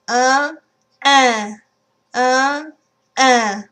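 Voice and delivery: "uh" with the mouth widening into nasal un. Shown as a demonstration. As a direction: open the mouth wider on each "uh". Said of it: "I'm just widening my mouth".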